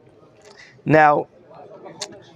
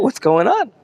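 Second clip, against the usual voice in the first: mild acted outcry, higher pitched; a widow's protest, lightly imitated, pitched up; crying out; 5 semitones higher than usual. Teacher voices the poor widow's plea, a mild crying out. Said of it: "and she's crying out".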